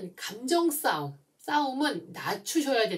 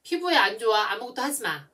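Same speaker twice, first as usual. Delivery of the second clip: parent giving orders; 5 dB louder, faster than usual. Retold or imitated. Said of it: "지시하셨어요".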